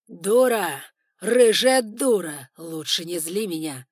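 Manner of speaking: furious shout. Acted. Drunk lord striking her.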